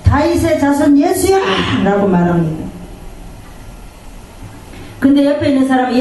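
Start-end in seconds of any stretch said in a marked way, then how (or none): 0.0-1.4 mock cry of the blind man, higher; retold plea, raised pitch but not a full shout; calling out. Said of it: "또 한 번 소리를 지릅니다".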